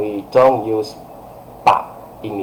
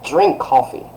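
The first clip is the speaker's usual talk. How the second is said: higher imperative with falling end; giving an order; 4 semitones higher than usual. Shown as a demonstration. Teacher demonstrating an order, strong imperative. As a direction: make it a direct command. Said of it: "you're giving someone an order".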